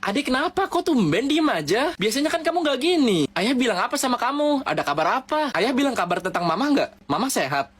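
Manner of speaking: high, anxious pleading; worried questions. Retold or imitated. Older sibling begging the silent sister to talk, high and anxious.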